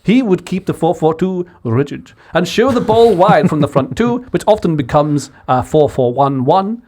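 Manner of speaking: a hint of posh English, fast; posh English accent. Friends egging him into his posh English voice. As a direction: clip it like a posh pundit. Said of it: "Do your posh English one".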